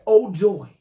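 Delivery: loud triumphant "Oh, joy" with a cry in it; gleeful cry. Real, not acted. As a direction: crow over catching him out. Gleeful at catching husband.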